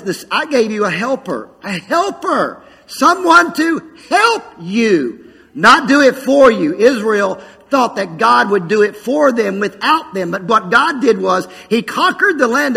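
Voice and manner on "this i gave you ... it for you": slow, rising to higher and louder on "someone to help you"; God's voice, emphatic. Acted. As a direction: stretch out "a helper", then lift and punch the rest. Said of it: "And God says".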